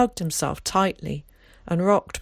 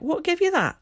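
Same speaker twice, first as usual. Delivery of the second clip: put-on rough, higher old countryman; gruff old man; 11 semitones higher than usual. A narrator's reading. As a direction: ask it bluntly as an old man. Tom asks about the bruise.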